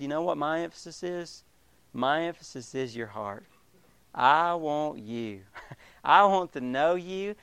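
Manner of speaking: tender God. Acted. Voicing God's tender invitation.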